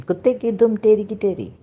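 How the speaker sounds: quoting an Urdu saying; Urdu proverb. Shown as a demonstration. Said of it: "They say in Urdu".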